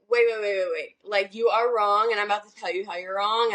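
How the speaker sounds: rapid-fire retold interruption, cutting in; corrective objection. Retelling her reply to the other woman on the phone, corrective objection. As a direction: cut in as if about to correct them. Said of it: "because my response was so, like".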